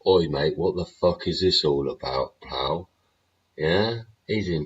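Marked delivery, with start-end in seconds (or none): 0.1-2.9 louder mock bloke's challenge, oi mate; angry geezer. The legitimate geezer confronting the released migrant, rough and louder. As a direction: play the fed-up geezer confronting him. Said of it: "the legitimate geezer is going".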